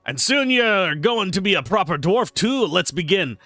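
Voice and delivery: Torvin dwarf voice. Acted. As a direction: play the boisterous tavern brewer sizing up the newcomer. Reads drunk dwarf NPC lines.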